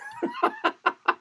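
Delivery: soft, very high giggle; high tittering laugh; real laugh. Real, not acted. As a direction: laugh at being heckled. Laughs at horrible joke comment.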